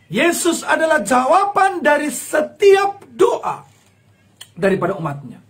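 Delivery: emotional crying declaration; tearful proclamation. Real, not acted. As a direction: proclaim it near tears. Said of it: "repeated proclamation".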